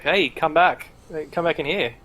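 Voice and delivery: mild mock yell to someone passing; calling out. Arena man yells out to Cassandra, mildly calling. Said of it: "He yells out to her".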